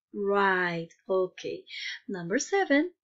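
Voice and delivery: ordinary talk, nothing marked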